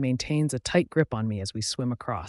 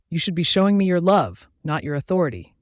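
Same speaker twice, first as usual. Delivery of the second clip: louder, higher sharp retort; snapping; 4 semitones higher, 5 dB louder than usual. Acted. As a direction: bite the words off at him. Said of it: "I snap".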